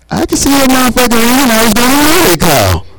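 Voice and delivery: high, annoyed comeback; irritated retort. Real, not acted. Complaining about being told his phone rings, irritated. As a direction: snap back high, annoyed.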